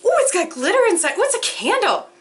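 gasp, then high, delighted exclamations; real thrilled surprise; excited discovery. Real, not acted. Discovers it is a candle.

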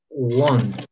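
"Want" said as won't, rounded o; pronunciation of won't. Shown as a demonstration. Teacher modelling good pronunciation, "Want" said like won't. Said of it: "Entonces pronunciamos bien".

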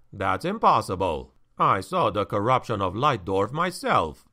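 low, steady grave man; calm, weighty denial; stern counselor. Acted. Verstolen answers, low and firm.

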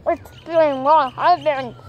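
a hint of an old grandpa. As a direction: lightly play the grandfather. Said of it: "할아버지 목소리". (할아버지 목소리)

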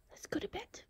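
high, cooing invitation; cutesy pet talk. Real, not acted. Owner tells her pet it's bedtime, cutesy high voice. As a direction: coo it high to a sleepy pet.

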